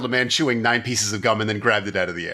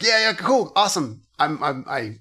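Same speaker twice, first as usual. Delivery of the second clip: giddy fan; 4 semitones higher than usual. Retold or imitated. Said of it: "he's like".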